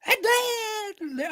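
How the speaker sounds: excited drawn-out yell; hype shout. Real, not acted. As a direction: stretch it out like a hype man.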